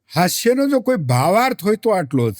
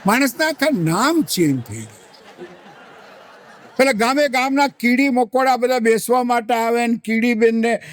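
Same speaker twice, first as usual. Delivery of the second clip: ordinary delivery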